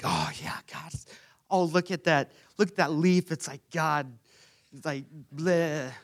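a hint of a breathless, awed over-spiritualizer; lightly mock someone seeing God in a leaf. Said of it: "everyone knows the over-spiritualizer".

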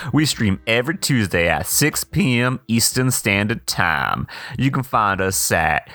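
lightly voiced campy host; a hint of a flamboyant showman; campy drag queen. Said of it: "the host".

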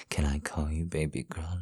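hushed breathy whisper. Acted. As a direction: whisper the question. Repeats question as whisper.

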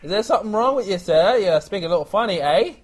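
put-on affronted waiter in a muddled British-Australian accent; absurd British accent. Waiter questioning a customer's speech, in a muddled British accent. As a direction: challenge them in a hammed-up British accent. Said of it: "it was all over England and all over Australia".

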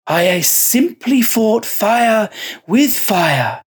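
slow, high, amused monk voice; chuckling monk. A narrator's reading. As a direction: savour it with a sly chuckle. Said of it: "he chuckled".

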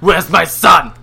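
loud dramatic movie line; Blood Diamond quote. Acted. Quoting Blood Diamond back at his friend, loud movie line. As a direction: call it out like a film hero. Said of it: "I was quoting Blood Diamond".

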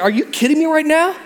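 high, fed-up complaining bird voice; exasperated bird. Retold or imitated. The frustrated mother bird complaining about the trees, exasperated. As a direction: whine it like a bird that can't catch a break. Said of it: "The bird's like".

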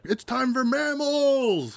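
high, slow squeaky cheer; a little rat announcing it. Retold or imitated. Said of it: "and were like".

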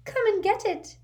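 a spiteful mermaid mocking a sinking boy; malicious mermaid giggle. A narrator's reading. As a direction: tease him from above, cruelly playful. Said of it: "she giggled maliciously".

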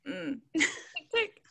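high, laughing, slowed mock swoon; laughing through it. Friend imitating Emily swooning over him, laughing high. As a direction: giggle your way through the line.

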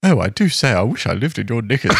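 light posh English drawl, laughing through it; posh young London drawl. Shown as a demonstration. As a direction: drawl it like a toff, half-laughing. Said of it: "if you say it in the posh accent".

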